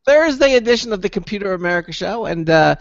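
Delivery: brisk-to-measured host's station read; radio show announcer. Real, not acted. Host telling listeners how to join the show, announcer delivery. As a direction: deliver the show's contact details like an announcer.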